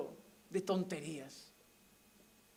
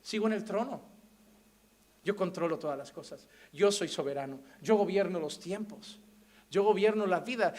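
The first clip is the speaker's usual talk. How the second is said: God consoling and sovereign; 4 semitones lower than usual. Acted. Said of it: "Él es el que voy a Él y me dice".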